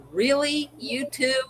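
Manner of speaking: retold skeptical double-take; incredulous. Second daughter pushes the same book.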